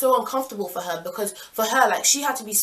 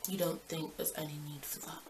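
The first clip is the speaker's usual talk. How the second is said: incredulous; 5 semitones lower, 15 dB quieter than usual. Retold or imitated. Narrator incredulous at cheater.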